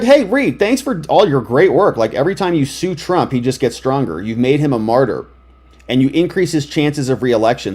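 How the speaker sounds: ordinary delivery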